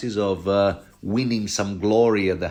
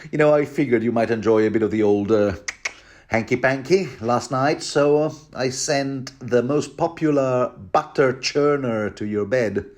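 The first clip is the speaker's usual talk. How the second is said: sly Qyburn; 3 semitones higher than usual. Retold or imitated. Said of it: "This is Qyburn".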